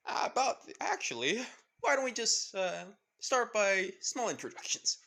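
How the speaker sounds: put-on high, loud chatty boy addressing the audience; excited boy narrator. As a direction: talk to the viewers like an eager kid. Izuku addressing the viewers.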